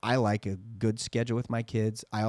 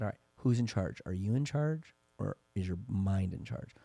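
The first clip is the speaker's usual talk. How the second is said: softer, measured coaxing; mildly calming parent; 7 dB quieter than usual. Retold or imitated. Dad talks his crying son down, retold in a calming voice. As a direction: gently settle an upset child, retold. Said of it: "Centered him down".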